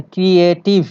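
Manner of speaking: "ক্রিয়েটিভ" broken into three beats; syllable by syllable. Shown as a demonstration. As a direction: sound out each syllable of "ক্রিয়েটিভ". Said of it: "three or more syllable".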